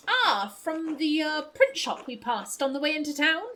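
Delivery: lightly put-on posh accent. Traveler recalling the print shop on the way in, lightly posh. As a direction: ask politely in a posh accent. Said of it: "I'll give you posh voice".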